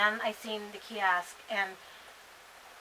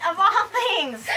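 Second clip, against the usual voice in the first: slow, high words squeezed through laughter; laughing; 9 semitones higher, 8 dB louder, much slower than usual. Real, not acted. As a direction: say it while cracking up. Laughing at own fear.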